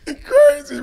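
excited shout. Real, not acted. Sees himself on the record.

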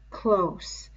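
"close" breathed as an eerie whisper. Acted. The beast drawing Simon in, whispering "close". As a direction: whisper "close" right into his ear. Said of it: "close. (whisper)".

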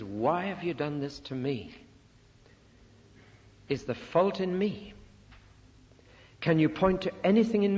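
mildly frustrated, pleading questions; an understated puzzled God seeking an answer. Acted. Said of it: "of a frustrated, puzzled God".

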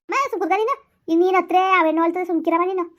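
high, sharp hushing; exasperated scolding. Acted. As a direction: cut off mother's weeping impatiently. Exasperated child hushes weeping mother.

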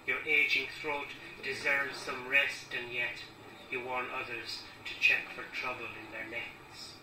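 measured, deliberate poetry recital; poem reading. Acted. Poet reading a poem in memory of Claude to an audience, measured recital. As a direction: read the verse out line by line with pauses. Reads own poem aloud.

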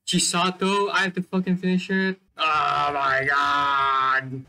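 long, stretched frustrated shout. Real, not acted. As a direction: yell it out in gamer frustration. Frustrated outburst during gameplay.

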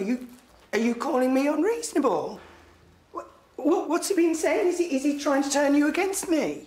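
rising, stammering indignation; agitated, accusing. Acted. Mother confronting her son over his father, agitated and accusing. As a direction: demand answers, pitch climbing.

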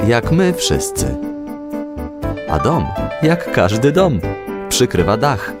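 ordinary delivery, nothing marked

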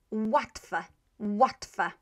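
"łatwe" with an English w at the start; pronunciation demo. Shown as a demonstration. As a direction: model "łatwe" as WAT-feh. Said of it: "some words with w".

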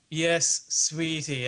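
put-on Anglicised Sydney accent, drawn out; affected inner-city Sydney, aspiring to London English; half-English Australian accent, knowingly affected. Shown as a demonstration. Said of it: "you might say more things like".

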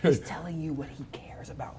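soft whisper, intimate; whispered point. Real, not acted. Explaining God's heart to a friend, whispering. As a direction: drop to a breathy whisper for the point. Pastor explains what God shares.

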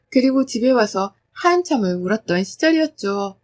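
ordinary delivery, nothing marked

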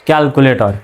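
ক্যালকুলেটর said with k sounds, "kyal-ku-le-tor"; hard k in both places in ক্যালকুলেটর; correct pronunciation demo. Shown as a demonstration. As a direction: model ক্যালকুলেটর as "kyalkuletor", falling at the end. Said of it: "সঠিক উচ্চারণটা কেমন হবে".

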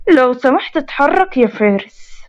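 slow, breathy whisper of a polite request. Acted. Grandmother whispering the polite words slowly for Mariam to copy.

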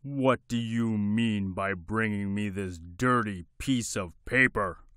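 a furious king scolding; angry king shout. Acted. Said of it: "shouted the king".

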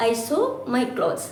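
very slow, careful "I sew my clothes"; slow example reading. Shown as a demonstration. Teacher reading a simple example very slowly. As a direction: read it word by word for beginners. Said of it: "ഈ example നോക്കൂ".

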